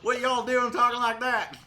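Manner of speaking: slow, loud hammed-up y'all twang; drawn-out, exaggerated Southern American twang. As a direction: holler it high in a mock American twang. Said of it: "American twang or whatever you got".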